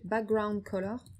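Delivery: English words in a French accent; slow English term with a strong French accent; franglais accent. Real, not acted. Tutor reading out a code property, franglais accent. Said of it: "avec mon magnifique, euh, as-, accent, euh, franglais".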